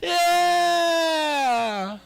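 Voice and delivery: very high, loud squeaky cheering; hammed-up squealing crowd; cheering pubes. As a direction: shout like tiny fans doing the wave. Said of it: "They were like".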